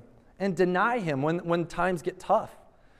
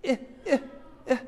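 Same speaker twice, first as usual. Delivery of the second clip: mock indifferent shrug; 7 semitones higher, much faster than usual. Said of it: "say more than just".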